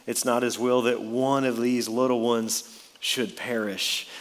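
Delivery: "one" given extra weight; emphasize the word "one"; stress on one. Shown as a demonstration. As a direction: let "one" carry the sentence. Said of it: "Notice the emphasis on that word one".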